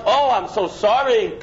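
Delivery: mock sweet praise from the woman; gushing apology. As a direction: gush with sudden admiration. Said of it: "she responds".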